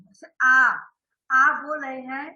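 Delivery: आ held long with the mouth wide open; open vowel demo. Shown as a demonstration. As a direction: model a full open आ for the class. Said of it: "आ का उच्चारण कीजिए".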